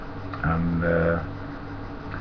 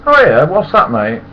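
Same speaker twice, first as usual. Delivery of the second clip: Ernie's reply; 9 semitones higher, 9 dB louder than usual. Retold or imitated. Ernie asks casually.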